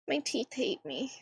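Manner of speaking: whispered self-pity. Real, not acted. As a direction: breathe it out miserably. Whining about hangnail.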